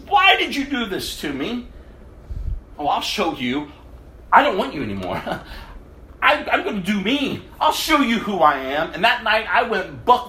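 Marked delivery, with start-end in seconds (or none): 0.1-1.7 mock scream. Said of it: "screaming at the top of my lungs". 2.8-8.9 defiant shout. Retold or imitated. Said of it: "screaming at the top of my lungs".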